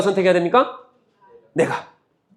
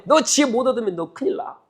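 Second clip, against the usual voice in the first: higher-pitched mock threat; lightly voiced stern warning; threatening warning; 7 semitones higher than usual. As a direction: warn them like a scolding prophet. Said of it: "위협하고".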